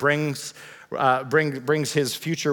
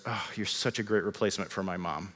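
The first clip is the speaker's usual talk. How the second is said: mock husband; 6 semitones lower, 9 dB quieter than usual. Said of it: "and says".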